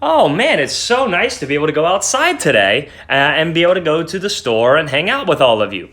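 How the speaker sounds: sarcastic fake enthusiasm. Shown as a demonstration. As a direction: gush with fake delight. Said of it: "if I were to say".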